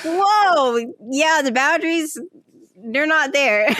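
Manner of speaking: amused mock shock, starting high; retold astonishment. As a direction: play up your own startled reaction. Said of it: "I'm like".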